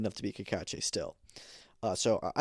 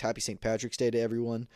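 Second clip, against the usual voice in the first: put-on a light, hammy stab at an Irish accent; barely-there Irish accent, half-joking; bad Irish accent. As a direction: toss off a festive greeting in a mock Irish lilt. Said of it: "that's a bad Irish accent".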